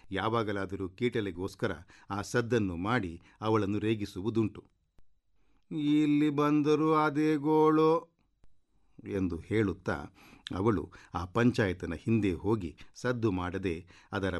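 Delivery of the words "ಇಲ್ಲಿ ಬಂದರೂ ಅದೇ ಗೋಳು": high, drawn-out grumble; exasperated complaint. A narrator's reading. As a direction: complain slowly in a high, fed-up voice. Character irritated by scratching noise.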